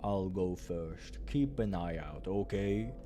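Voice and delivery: low, slow calm voice; low steady companion voice; Boris voice. Acted.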